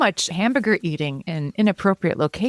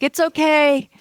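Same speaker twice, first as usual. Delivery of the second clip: much higher, sing-song breezy it's okay; mock reassurance; 10 semitones higher, slower than usual. Mocking people banging the drum, chirpy dismissive reassurance. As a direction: brush the worry off with chirpy cheer. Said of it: "It's like".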